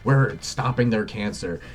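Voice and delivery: a mocking bureaucrat gasping at the insult; mock freak-out. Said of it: "They start freaking the hell out".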